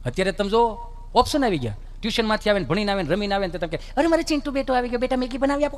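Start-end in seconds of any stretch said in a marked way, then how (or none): 4.0-5.8 lightly voiced, a bit higher, sweet mother; doting mother. Mother fusses over son home from tuition, lightly sweet. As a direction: coo over your little boy.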